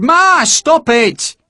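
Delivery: high, loud, slow furious tirade; an angry mother berating the recruits; screaming in rage. Acted. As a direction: scold them like an outraged mother. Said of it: "screaming in rage".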